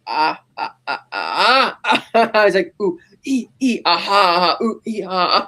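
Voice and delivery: retold Joker cackle, lightly done; a mocking cackle in bits; imitating a Joker laugh. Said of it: "that's where we hear the laugh".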